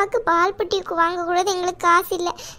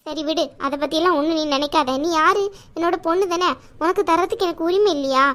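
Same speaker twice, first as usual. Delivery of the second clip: a slightly lower, motherly aunt who scolds out of love; caring aunt voice; 4 semitones lower than usual. Acted. Aunt scolds niece Saraswathi for hiding debts, lower motherly voice. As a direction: play the protective chithi, chiding but kind.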